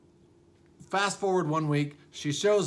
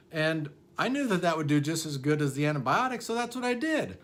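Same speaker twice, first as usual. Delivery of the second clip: patient's voice; 3 semitones higher than usual. Retold or imitated. Patient voiced in retold story.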